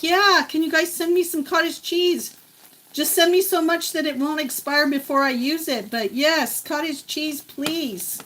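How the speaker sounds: pleading request. Pretend. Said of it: "I'd be like".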